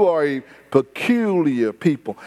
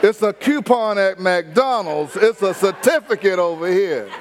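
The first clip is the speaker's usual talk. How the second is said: laughing demo of fancy talk. Shown as a demonstration. Pastor demonstrating restaurant talk to the congregation, laughing. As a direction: show the fancy word with a laugh. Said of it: "I'm learning to talk".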